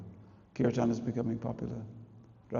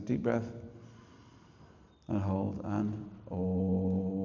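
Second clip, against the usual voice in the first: breathing instruction; 2 semitones lower, much slower than usual. Retold or imitated. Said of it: "they're saying".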